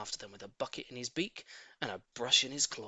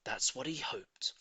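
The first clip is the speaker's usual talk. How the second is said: whisper; 4 dB quieter, slower than usual. A narrator's reading. Aside about his hopes.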